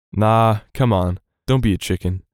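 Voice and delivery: teasing. Acted. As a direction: needle your scared friend. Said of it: "I teased".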